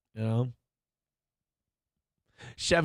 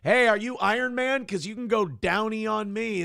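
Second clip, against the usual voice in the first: higher, called-out pickup line; catcall; 5 semitones higher than usual. Acted. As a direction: toss it out high as a come-on. Demonstrates own catcall line.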